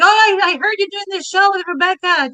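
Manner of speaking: quoting a chatty actor; retold actor's greeting. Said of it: "he was like".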